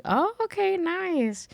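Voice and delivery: high-pitched, polite retold reply; impressed small talk. Guest replays chatting tequila with a celebrity, high and agreeable. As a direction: lift it right up, lightly impressed.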